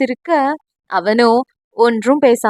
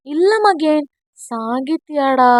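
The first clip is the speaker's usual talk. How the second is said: shy; 3 semitones higher, slower than usual. Acted. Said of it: "என்று வெட்கப்பட்டு கொண்டே கூறினான்".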